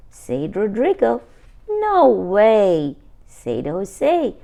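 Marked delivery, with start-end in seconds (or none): 1.7-3.0 a loud, flat no from a bored brother; loud refusal. Acted. Brother turning down his sister, loud refusal. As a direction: toss it out loudly, no interest.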